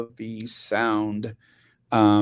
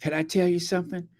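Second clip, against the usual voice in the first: higher-pitched mimicry of a woman; quick, higher quoted voice of someone about to confide; imitating TikTok woman; 7 semitones higher, much faster than usual. Woman on TikTok answering about Juneteenth, imitated. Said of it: "and she goes".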